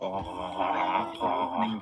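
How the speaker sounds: slow, laughing through it; words stretched by laughter. Real, not acted. Player laughing while describing the scene.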